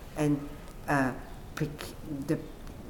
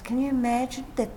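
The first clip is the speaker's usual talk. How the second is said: amused disbelief; 5 semitones higher, 4 dB quieter than usual. Retold or imitated. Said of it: "the praying man says".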